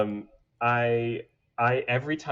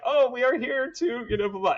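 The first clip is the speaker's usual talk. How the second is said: higher, lightly mocking goblin voice; friendly goblin; 14 semitones higher, 5 dB louder than usual. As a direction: play a chirpy harmless goblin. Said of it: "They would be like".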